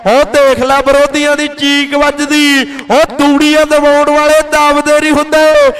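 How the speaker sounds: rapid-fire kabaddi play-by-play; frantic rural sports commentary. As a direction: call the match live, hyped. (ਜੋਸ਼ੀਲੀ kabaddi commentary)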